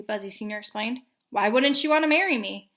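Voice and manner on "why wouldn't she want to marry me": surprised. Acted. Child indignant.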